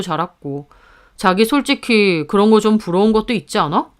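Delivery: lightly voiced husband, insinuating; a hint of a husband probing a sore spot; needling husband. Husband urging wife to admit envy, lightly voiced insinuation.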